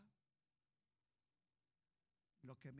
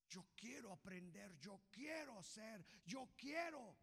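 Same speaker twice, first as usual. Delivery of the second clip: building to a shout; 4 semitones higher, 4 dB louder, slower than usual. Acted.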